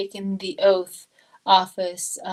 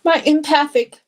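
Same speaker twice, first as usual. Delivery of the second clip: emotional; 4 dB louder than usual. Real, not acted. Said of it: "being empathic sometimes embarrasses me".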